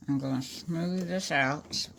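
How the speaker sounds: talking around a pin in the mouth; mouth full. Real, not acted. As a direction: speak with a pin held in your lips. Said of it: "I got a pin in my mouth".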